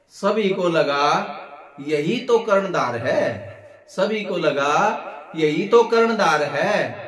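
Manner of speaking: measured Hindi verse with drawn-out, lilting line endings; comic poem recitation. Acted. Comedian recites a satirical poem about a monkey leader, poetic lilt. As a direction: recite it like a stage poet, stretching the phrases.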